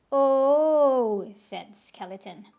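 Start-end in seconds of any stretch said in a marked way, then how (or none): 0.1-1.3 loud realizing oh; a startled, relieved oh; loud surprised oh. Acted. Skeleton realizing.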